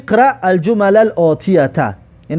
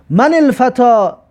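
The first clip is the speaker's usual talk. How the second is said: slow recitation; 3 semitones higher, slower than usual. Shown as a demonstration. Teacher recites next exercise.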